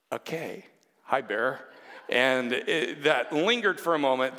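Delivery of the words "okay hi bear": hesitant, uneasy hello; unsure how to greet the big biker; awkward greeting. Retold or imitated. Nervous young man meeting girlfriend's dad, awkward hello. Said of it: "there's that awkward".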